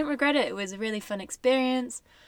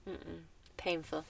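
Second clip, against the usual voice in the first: ordinary delivery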